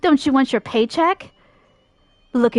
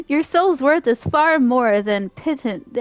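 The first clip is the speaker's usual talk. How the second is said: slow dramatic read. Shown as a demonstration. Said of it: "These words are big".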